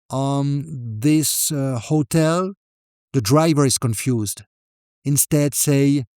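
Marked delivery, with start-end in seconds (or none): 0.1-2.5 hesitant, halting mock mumble; unsure mumble. Confused tourist telling the driver the destination, hesitant mumble. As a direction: fumble for words between fillers. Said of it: "Most people mumble".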